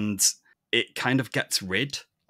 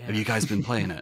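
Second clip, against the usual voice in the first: quick, casual Manchester question; normal Manchester voice; faster than usual. Shown as a demonstration. Asking co-hosts about a game, casual Manchester accent. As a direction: chat to mates in your own Manchester accent. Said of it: "this is my normal voice".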